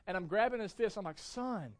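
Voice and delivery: a touch of soothing dad; calm a toddler as a loving father; gentle father. Retold or imitated. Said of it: "I'm a loving father".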